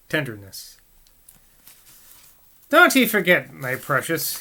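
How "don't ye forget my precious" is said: blurted louder, rustic; husband blurting to his wife. Acted. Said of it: "he blurted out".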